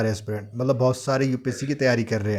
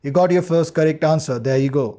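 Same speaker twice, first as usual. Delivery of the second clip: encouraging; 2 semitones higher, much slower than usual. Shown as a demonstration. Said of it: "motivate करने के लिए".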